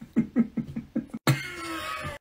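long high giggle; breathy, high laughter; giggling. Acted. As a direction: crack up together. Laughing together.

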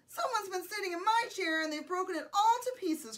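high-pitched little-bear complaint; crying Baby Bear. A narrator's reading. Baby Bear finds the chair broken, mock crying. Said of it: "cried the Baby Bear".

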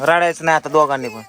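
stern shout. Real, not acted. Father orders both crying kids to stop, stern shout.

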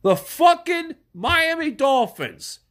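furious shout at the Dolphins; angry shout. Real, not acted. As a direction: spit out the team name in fury. Shouting in disgust.

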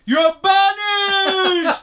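high, slow, booming shriek; shouting witch voice. Acted. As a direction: screech it like a cursing witch. Voicing the banishment again.

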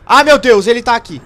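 frightened yelling, high and loud; panicked shouting. Real, not acted. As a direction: scream it in real panic. Monster appears, hiding in panic.

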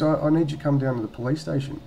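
hint of a policewoman impression; policewoman on phone. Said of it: "She goes".

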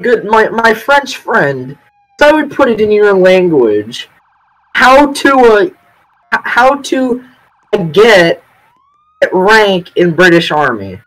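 broken English in a put-on French accent; hint of a French accent; mock French accent. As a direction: play a Frenchman asking for rank, lightly accented. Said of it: "he has very heavy French accent".

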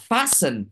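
"fasten" said as a clear model; pronunciation demo. Shown as a demonstration. Teacher shows students how to read the word, demonstrating "fasten". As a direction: pronounce "fasten" with stress on the first syllable. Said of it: "cái từ này mình đọc là".

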